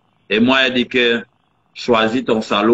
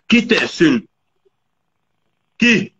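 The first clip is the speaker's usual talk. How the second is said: high-pitched, incredulous question; indignant high repeat; indignant challenge; 6 semitones higher, slower than usual. Real, not acted. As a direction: throw the accusation back, pitched up.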